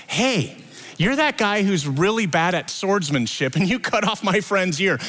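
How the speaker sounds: a hint of a pointing accuser; teasing mock accusation; accusing servant. High priest's servant accuses Peter.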